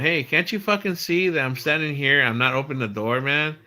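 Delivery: mild mock yell at salesmen; retold yell. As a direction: re-enact exasperated telling-off through the door. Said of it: "I finally yell at them".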